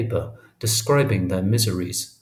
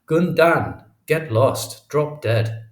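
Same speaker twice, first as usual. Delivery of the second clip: mildly acted angry yell, easing off; furious yelling; 5 semitones higher, 4 dB louder, slower than usual. A narrator's reading. Fourth brother screaming at narrator, restrained furious yell. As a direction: start high and loud, then let it drop. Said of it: "screaming at me at the top of his lungs".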